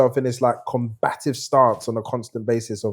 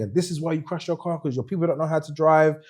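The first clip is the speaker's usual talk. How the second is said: ranting Italian driver; 6 semitones higher than usual. Retold or imitated. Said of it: "he just went into this whole thing".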